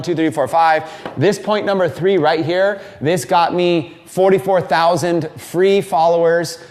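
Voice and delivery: calm outline. Shown as a demonstration. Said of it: "You could always just say".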